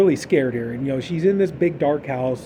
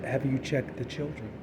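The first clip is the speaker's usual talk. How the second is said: creepy caller; 3 semitones lower, 12 dB quieter than usual. Retold or imitated. Creepy caller voice in retold film.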